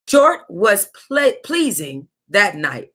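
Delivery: slow, teasing drawl; suggestive. Real, not acted. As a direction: stretch it out suggestively. Savoring a suggestive line.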